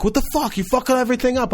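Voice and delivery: high, loud mock yell; retold angry outburst. Angry blackjack player yelling at a novice, high mock yell. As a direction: bark it like the annoyed gambler.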